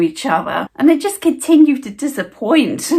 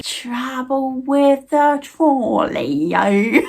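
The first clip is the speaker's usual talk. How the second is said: slow laughing jibe; much slower than usual. Retold or imitated. Repeats jibe, slower, laughing.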